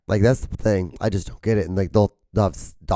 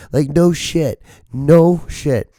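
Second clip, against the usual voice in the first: higher, louder mock exasperation; exasperated retort; 7 semitones higher, 4 dB louder, much slower than usual. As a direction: throw it back, exasperated at the obvious. Mock exasperation at obvious advice.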